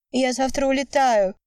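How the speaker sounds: high call after someone leaving. A narrator's reading. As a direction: call out after him across the lot. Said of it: "крикнула вдогонку Вика".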